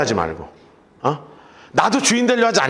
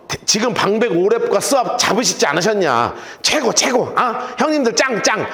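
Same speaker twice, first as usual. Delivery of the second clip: coaxing flattery. Retold or imitated. Gideon soothing Ephraim's angry men, mock flattery. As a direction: soothe them like a younger brother buttering up. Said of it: "이렇게 해가지고 달랜다고요".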